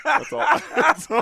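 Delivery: high, loud, fast hype promo; French Canadian wrestler impression. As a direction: shout it like a WWE promo, brother. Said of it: "that's the French Canadian accent".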